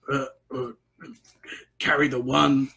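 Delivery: lightly voiced dim orc struggling with sums; a hint of a baffled, stupid orc; Bugsy. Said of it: "Bugsy was like".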